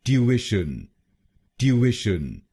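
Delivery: ट्यूशन with "ish" stressed, "tyoo-ISH-un"; stress on the middle syllable. Shown as a demonstration. Teacher stressing the second syllable in British ट्यूशन. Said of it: "दूसरे शब्दांश पर यानी आईटी पर जोर डालना है".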